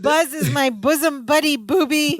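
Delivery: lightly voiced Balki accent; a hint of a foreign sidekick. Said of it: "slips in the bosom buddy".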